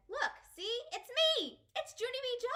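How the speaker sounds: high, bright-pitched pleading; eager insistence. Acted. Child pointing at her face for Nana. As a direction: make her remember you.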